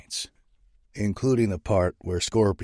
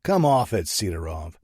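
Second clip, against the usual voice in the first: snapping; 4 dB louder than usual. Acted. Saint snapping at the Russian boss on the phone. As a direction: bite off the words impatiently. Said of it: "I snap".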